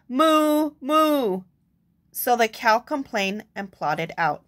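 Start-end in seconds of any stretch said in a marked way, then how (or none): 0.1-1.4 a mild, higher moo; cow mooing. Acted. Cow asking the librarian for something to do, mooing. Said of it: "All she heard was".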